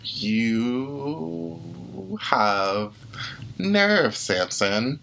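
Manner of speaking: slow, haughty villain menace; evil queen. Acted. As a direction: sneer each word slowly.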